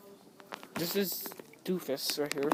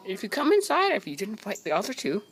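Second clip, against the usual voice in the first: pet talk voice; 4 semitones higher, 3 dB louder than usual. Real, not acted. Talking to cat in pet voice.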